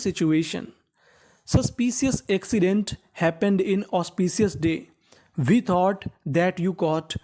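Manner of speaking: very slow, deliberate read-aloud of each English sentence; slow revision reading. Shown as a demonstration. Teacher revising the sentences with students, reading them very slowly.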